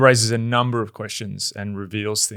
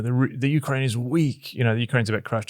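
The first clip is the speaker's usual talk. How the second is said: trash talking. Retold or imitated. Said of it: "sort of trash talking Newman".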